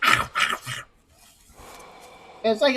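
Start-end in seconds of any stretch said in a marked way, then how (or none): 0.0-0.8 messy zombie chomping noises, no real voice; imitated zombie eating. Showing how the zombie drowned out the actor, mock munching. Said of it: "the zombie's just like".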